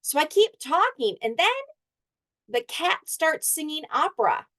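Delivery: the dog tells his tale, building to glee; teacher voicing the dog at Pets Day; dog Thinker narrating. Dog narrates the school scene.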